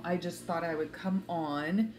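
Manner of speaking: usual speaking voice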